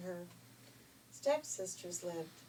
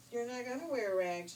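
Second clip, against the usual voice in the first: fairy godmother; 4 semitones higher, 6 dB louder than usual. Acted.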